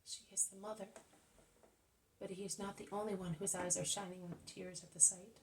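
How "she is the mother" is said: soft, hushed aside; murmured with quiet sympathy; whisper. Acted. Peter to the disciples, softly moved.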